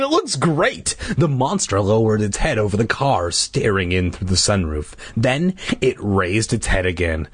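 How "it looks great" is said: put-on high, hopeful child's plea; pleading. A narrator's reading. Boy selling the park, pleading. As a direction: coax eagerly with a raised pitch. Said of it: "Luke pleaded".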